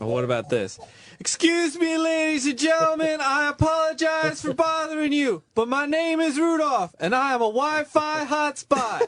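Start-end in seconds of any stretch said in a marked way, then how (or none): 1.2-9.1 mock shouted, high-pitched yelling. On a radio show, offering a better headline as a character, imitating a yelling panhandler. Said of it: "Why is he yelling?".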